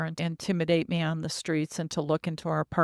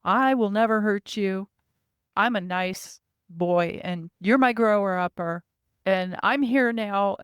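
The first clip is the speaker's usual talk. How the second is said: put-on childlike reassurance; 3 semitones higher, 4 dB louder than usual. Narrator voicing the child reassuring her he's nice. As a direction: earnestly promise like a small child. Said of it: "or just letting me know".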